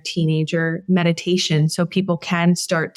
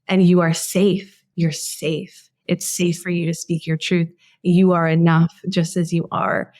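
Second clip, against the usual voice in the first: soothing voice. Retold or imitated. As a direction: hush it down like comforting a little girl. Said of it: "soothing voice that I just heard you say".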